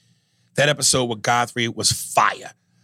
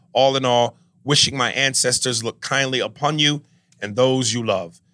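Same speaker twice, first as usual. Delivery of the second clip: put-on African accent. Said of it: "please don't do the African accent".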